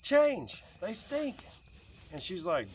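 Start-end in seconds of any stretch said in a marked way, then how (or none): 0.0-1.4 higher and higher, fed-up scolding; exasperated dad. Retold or imitated. Dad scolds daughter about dirty clothes, exasperated and loud. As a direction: nag the kid, rising to a loud Change.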